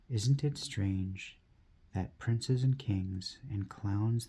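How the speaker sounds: slow, measured verse recital; poem reading. Acted. Reading an inspirational poem to viewers, slow poetry recital. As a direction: recite it line by line, weighting key words.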